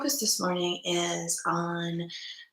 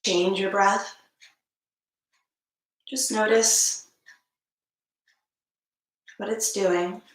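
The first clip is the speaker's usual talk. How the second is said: unhurried meditation guidance with long pauses; spacious, measured meditation instruction; guided meditation. Acted. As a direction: lead them gently into stillness, leaving space between phrases.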